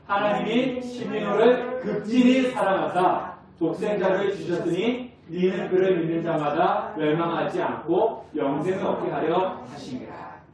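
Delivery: slow sing-song unison scripture reading; slow congregational reading. Acted. Pastor leading the church in slow chanted recitation. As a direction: chant the verse slowly with the congregation. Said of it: "다 같이 시작".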